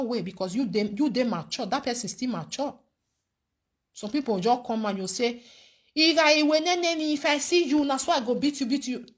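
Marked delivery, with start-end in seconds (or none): 5.9-9.0 mock threat. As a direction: mimic someone warning of a beating, starting high. Acting out a woman's threat to fight.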